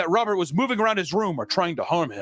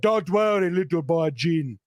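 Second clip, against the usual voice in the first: slow, comforting mock mystic voice; lightly voiced kindly servant; soothing servant; 3 semitones higher, slower than usual. Servant consoling the crying boy, slow soothing voice. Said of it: "He's like".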